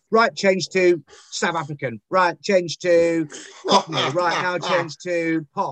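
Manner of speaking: mock bark of sudden commands, drawn out before each accent; imitated shouting. Casting panel firing accents at an auditioning actor, imitated shouting. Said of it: "they would just start shouting accents".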